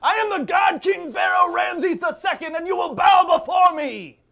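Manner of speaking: booming god king proclamation; dark lord. Acted. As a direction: roar it like a tyrant pharaoh. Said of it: "always bringing up this God King stuff".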